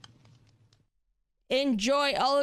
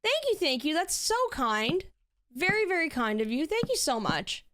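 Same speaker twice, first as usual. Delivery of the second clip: bubbly high-pitched thank-you, much higher; excited high squeal; 8 semitones higher than usual. Real, not acted. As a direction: gush with delight at the gift. Thanking a gifted sub excitedly.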